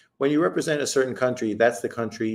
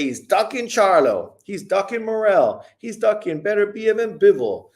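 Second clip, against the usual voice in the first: mock whiny high hater voice, higher; 9 semitones higher than usual. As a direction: imitate the haters with a sneer. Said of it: "they're gonna say".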